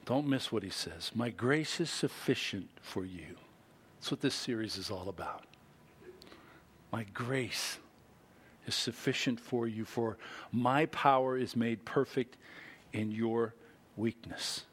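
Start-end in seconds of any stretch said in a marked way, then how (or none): 1.1-3.4 gentle quote. Retold or imitated. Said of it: "He said to me". 6.9-14.7 gentle quote. Retold or imitated. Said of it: "He said to me".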